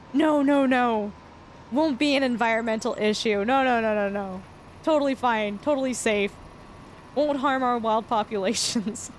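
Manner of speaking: mockingly echoing overconfident reassurances; mock adamant denial. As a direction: sarcastically insist there is nothing to worry about. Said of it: "people were so adamant that it wasn't gonna be an issue".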